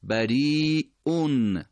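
slow بریئون with a long madd; بریئون stretched long; drawn-out demo. Shown as a demonstration. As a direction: hold the long vowel in بریئون. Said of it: "بریئون که با مدم همراهه".

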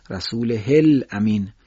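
رسوله الامین بدون اشباع، آهسته; رسوله الامین را با های کوتاه و آهسته بخوان; short ha demo, slow. Shown as a demonstration.

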